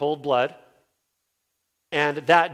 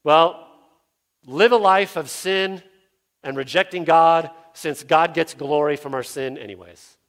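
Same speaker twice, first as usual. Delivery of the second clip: mock objector; 6 dB louder than usual. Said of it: "this fourth objection is".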